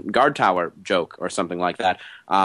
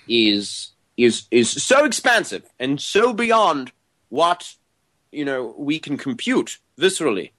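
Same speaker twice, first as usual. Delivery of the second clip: intellectual voice; 2 semitones higher than usual. Acted. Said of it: "Go with the intellectual voice".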